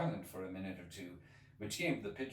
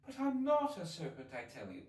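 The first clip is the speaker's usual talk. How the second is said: protesting Alice; 7 semitones higher than usual. Acted.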